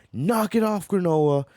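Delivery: high sharp scolding; mock stern order. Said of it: "He's like".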